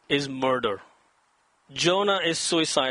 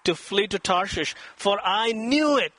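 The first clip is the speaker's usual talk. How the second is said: self-justifying; 3 semitones higher than usual. Acted. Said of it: "he's justifying himself".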